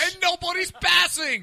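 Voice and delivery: high, slow English shout; mock British accent. Co-host parodying dull racing, mock British shout. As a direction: complain like a hammed-up British fan.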